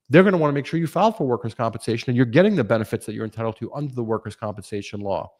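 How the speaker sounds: fast, wired, fired-up talking; too much caffeine. Real, not acted. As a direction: rattle it off like you're over-caffeinated. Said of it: "I'm sure me speaking at the speed I'm speaking".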